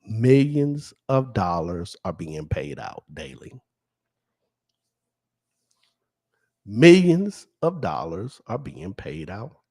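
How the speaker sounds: each word pressed out with weight; with emphasis. Shown as a demonstration. Announcing the lottery payouts to viewers with emphasis. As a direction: lean hard on Millions of dollars. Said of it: "I'm gonna say this with emphasis".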